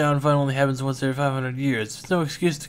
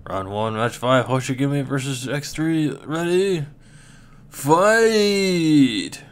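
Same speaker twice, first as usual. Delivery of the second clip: big arena call building to a roared start; booming fighting game announcer; slower than usual. Acted. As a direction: rev up the crowd, then roar the start.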